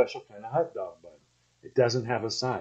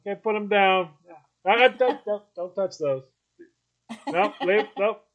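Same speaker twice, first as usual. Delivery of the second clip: grandpa at the grill; 5 semitones higher than usual. Retold or imitated. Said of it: "He'd go".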